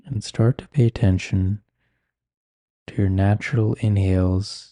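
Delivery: calm, unhurried meditation guiding with long pauses; guided meditation. Acted. Meditation teacher settles listeners with eyes closed, calm guiding voice. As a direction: ease listeners inward, leaving space between phrases.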